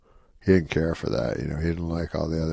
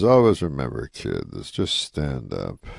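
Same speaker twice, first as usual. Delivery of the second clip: moving, retold advice; 6 semitones lower than usual. Veteran comic counsels younger comic alone, imitated as moving. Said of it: "it's very, like, moving".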